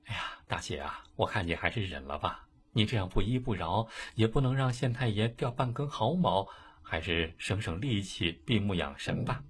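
soft pleading. Acted. Li softly urges patience.

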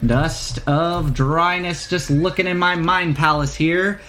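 know-it-all proprietor bluffing, with drawn-out pauses; halting, puffed-up merchant patter; stalling shopkeeper. Acted. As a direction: stall for answers in a wandering accent. Shopkeeper bluffs through explanation.

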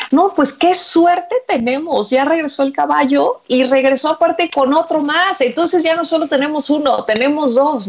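high, lightly acted excitement; acted euphoria. Son celebrates the second horse with his father, mildly euphoric. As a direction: marvel eagerly at the good luck. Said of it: "más bien eufórico con el papá".

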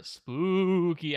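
stretched-out, ghostly "spooky"; hammed-up Halloween spookiness. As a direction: draw the word out like a haunting. Host hams up Halloween episode.

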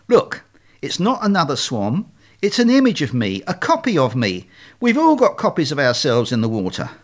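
lightly voiced, strained explaining; insistent leader swan. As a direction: explain it point by point to someone dim.

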